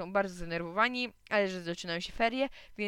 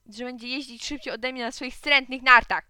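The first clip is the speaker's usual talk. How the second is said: high, indignant complaint; raised, whining protest; shouting; 4 semitones higher, 7 dB louder than usual. A narrator's reading. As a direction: tattle loudly on the other boy. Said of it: "krzyknął Gottfried".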